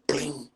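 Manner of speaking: high "bling" sound effect; imitated bat clang. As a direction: mimic the bat ringing as it breaks. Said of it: "It was like".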